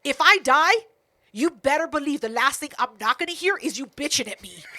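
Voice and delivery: imitating his yell at her; mild mock yell. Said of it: "and then he yells".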